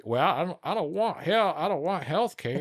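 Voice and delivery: high, whiny bro voice; high mocking voice of a bro who wants to keep his doctor; mocking a right-wing bro. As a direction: mimic a dumb bro whining about health care. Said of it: "this bro's telling me that".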